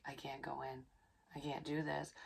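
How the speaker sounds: soft, breaking under tears; hushed and tearful in the driveway; tearful, quiet. Retold or imitated. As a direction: barely get it out, near tears.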